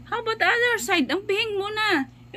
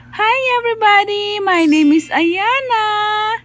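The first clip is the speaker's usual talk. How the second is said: put-on baby voice; 5 semitones higher, 3 dB louder than usual. Mother speaks as baby.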